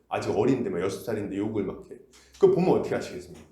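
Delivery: ordinary delivery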